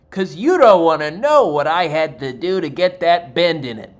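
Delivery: a waiter losing it at the birthday woman, loud and slow; unhinged rant. Retold or imitated. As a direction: let the madness leak out loudly. Insane waiter rants at customer.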